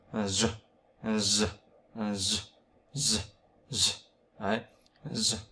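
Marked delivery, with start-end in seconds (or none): 0.3-3.9 "giờ" as a buzzing voiced consonant; GIỜ with tongue vibration. Shown as a demonstration. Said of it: "vẫn phải rung lưỡi nhá". 5.1-5.4 "giờ" with a voiced buzz; GIỜ with tongue vibration. Shown as a demonstration. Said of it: "vẫn phải rung lưỡi nhá".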